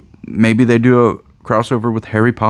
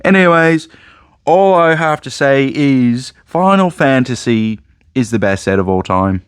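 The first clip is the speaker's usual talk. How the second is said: odd high voice; 4 semitones higher than usual. Real, not acted. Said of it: "Why am I talking like this?".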